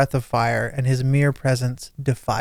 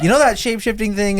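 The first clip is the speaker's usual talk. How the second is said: higher mock boss question; playful higher imitation of the boss; imitating Morgoth; 8 semitones higher than usual. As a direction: lightly mimic the boss asking. I'm just imagining him like.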